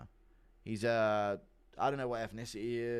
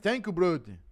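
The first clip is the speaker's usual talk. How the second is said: mock Brazilian accent; 6 semitones higher, 7 dB louder than usual.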